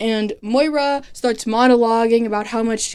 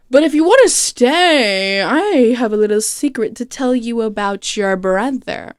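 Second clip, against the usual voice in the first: teasing villain. Retold or imitated. Villain teases a secret to captive.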